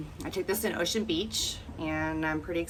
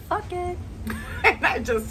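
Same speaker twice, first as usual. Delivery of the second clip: excited; 8 dB louder than usual. Real, not acted. Deciding to splurge on the trip.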